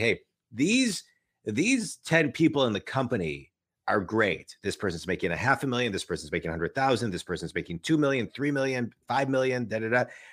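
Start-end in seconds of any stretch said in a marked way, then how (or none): none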